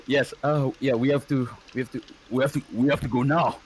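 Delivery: urgent character voice; javanese high register. Acted. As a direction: hurry everyone out the door. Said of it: "that's the Japanese voice".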